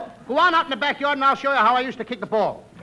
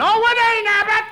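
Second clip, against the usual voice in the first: higher, louder protest; protesting shout; 8 semitones higher, 5 dB louder than usual. Acted. Costello insisting to Abbott that he's right. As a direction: insist hard on it.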